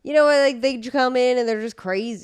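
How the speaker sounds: loud, high and wound up; unhinged. Real, not acted. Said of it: "I liked Unhinged Taylor".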